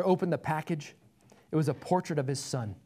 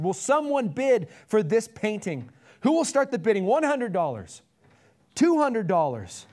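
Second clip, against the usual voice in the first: raised, loud bidding call; persistent auctioneer; 5 semitones higher, 5 dB louder than usual. A narrator's reading. Auctioneer pleading for a first bid, loud and persistent. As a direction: keep pressing the room for a bid. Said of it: "the auctioneer persisted".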